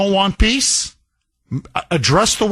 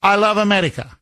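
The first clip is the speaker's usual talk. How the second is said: mocking Zelensky; faster than usual. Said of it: "All you say is".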